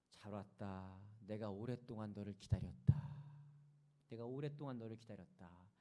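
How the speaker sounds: low, measured voice of God speaking. Retold or imitated. God welcomes a long-awaited newcomer in church, low and measured. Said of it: "음성이 들린 거예요".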